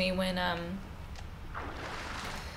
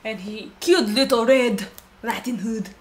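hint of a hammed-up French accent; terrible French accent. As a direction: put on a bad French accent. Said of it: "That's my terrible French accent".

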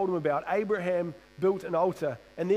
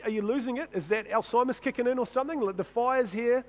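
high, cheeky teasing of a forgetful dad; mocking son; 4 semitones higher than usual. Son teases dad about forgetting the lamb, high and cheeky. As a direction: needle him, a bit higher. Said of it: "I'd be like".

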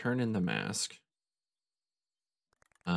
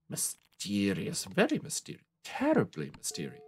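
mock mysterious; 3 dB quieter than usual. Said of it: "playful build on one word".

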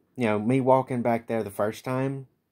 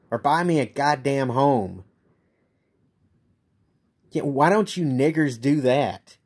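raised, louder bitter jeering; angry rant; 2 semitones higher, 4 dB louder than usual. Real, not acted. Homeless man lashing out at protesters, angry and raised. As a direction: spit it out at them in real anger.

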